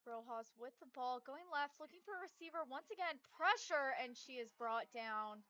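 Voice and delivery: rising live call, building to loud; play-by-play. Real, not acted.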